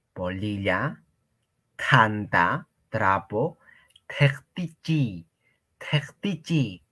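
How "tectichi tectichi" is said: "tectichi" whispered; whispered word. Shown as a demonstration. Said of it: "Freír, tectichi".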